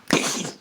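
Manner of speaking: short hissy mouth noise; imitated whoosh. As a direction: make a quick noise for something vanishing. Noise for rights vanishing.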